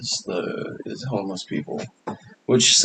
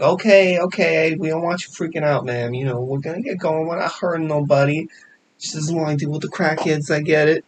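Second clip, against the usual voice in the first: Mike Tyson impression; 4 semitones higher than usual. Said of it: "sounds like Mike Tyson".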